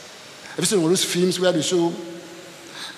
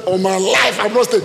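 panicked pig voice; 4 semitones higher, 5 dB louder than usual. Retold or imitated. Voicing panicked pigs.

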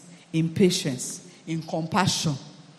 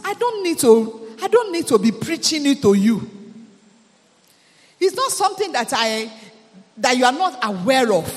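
higher, louder voicing of Paul; Paul's letter voiced; 4 semitones higher, 5 dB louder than usual. Paul telling the Thessalonian church he need not preach love, raised and proclaiming. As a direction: proclaim it as Paul writing to them. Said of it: "he's saying to a particular church".

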